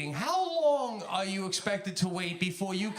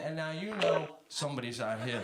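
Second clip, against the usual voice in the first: inner thought; 5 semitones lower, 8 dB quieter than usual. Retold or imitated. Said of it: "I'm thinking".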